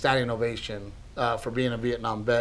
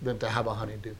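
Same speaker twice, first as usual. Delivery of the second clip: softer and fading; quietly missing his late wife; understated grief; heartfelt; 7 dB quieter than usual. Retold or imitated. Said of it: "He goes".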